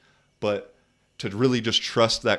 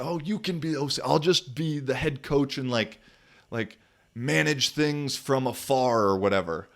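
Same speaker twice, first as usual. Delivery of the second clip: higher, airy mock coach voice; imitating the coach; 5 semitones higher than usual. Mocking the coach's offer to be head coach, in a higher put-on voice. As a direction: lightly parody his smug offer. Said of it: "he said".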